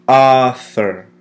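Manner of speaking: "Author" loud and clear, first syllable stressed; pronounce along. Shown as a demonstration. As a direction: say "Author" loudly for the class to copy. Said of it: "Pronounce it with me".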